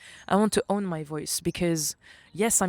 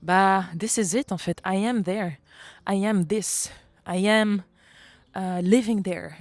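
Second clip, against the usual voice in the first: excited inner voice; 2 semitones higher, 6 dB louder than usual. Retold or imitated. Retelling inner excited realization.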